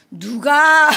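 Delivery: loud, stern changed voice; stern teacher voice. Retold or imitated. Teacher confronting the kids, loud stern voice. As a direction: demand to know who did it. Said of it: "그래서 목소리 변조".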